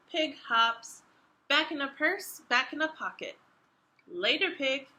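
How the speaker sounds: expressive picture book reading; reading to children. A narrator's reading. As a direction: read it out to young listeners.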